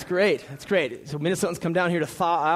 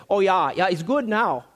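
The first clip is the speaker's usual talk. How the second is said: mock Minnesotan warning; 3 semitones higher than usual. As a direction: warn them playfully like a local in Minnesota. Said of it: "So here's what we say in Minnesota".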